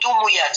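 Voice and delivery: دميات with u after the m: dumuyat; forbidden form. Shown as a demonstration. Teacher quoting the wrong plural to avoid. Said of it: "فلا تقول".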